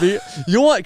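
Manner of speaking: put-on Puerto Rican accent. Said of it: "my best Puerto Rican accent".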